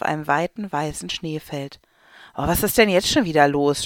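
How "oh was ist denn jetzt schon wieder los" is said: louder exasperated groan; fed-up moan at the delay; mild exasperated sigh; groaning complaint. Acted. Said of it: "stöhnt die Frau mit dem Handy".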